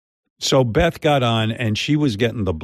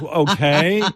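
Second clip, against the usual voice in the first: mock blank okay; 4 semitones higher than usual. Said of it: "she goes".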